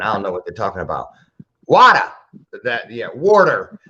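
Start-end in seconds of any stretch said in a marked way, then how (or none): 1.7-2.0 WATER said loud and high with no R; non-rhotic WATER, raised in pitch and volume; accent demo of WATER. Shown as a demonstration. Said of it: "we in the Midwest have an accent". 3.1-3.8 WATER in a Midwest accent with hard Rs; drawn-out Midwest WATER, Rs pronounced. Shown as a demonstration. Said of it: "Midwest have an accent".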